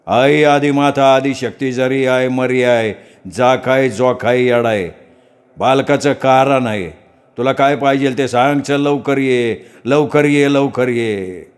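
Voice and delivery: slow, drawn-out incantation; invoking the goddess. Acted. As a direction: summon the goddess with drawn-out words. (देवीला लांब सुरात आवाहन)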